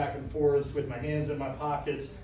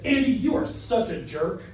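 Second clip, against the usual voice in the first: louder, emphatic insult; harsh accusation; 4 dB louder than usual. Shown as a demonstration. Trainer showing Andy how the insult sounds when meant, harsh accusation. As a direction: lay into them, stressing YOU. Same words, contrasting delivery demo.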